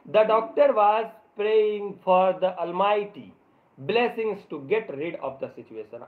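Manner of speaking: slow, word-by-word reading aloud; slow story reading. A narrator's reading. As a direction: read each English word out carefully for the class. Reads English story text slowly. (धीरे-धीरे, एक-एक शब्द पढ़ते हुए कहानी)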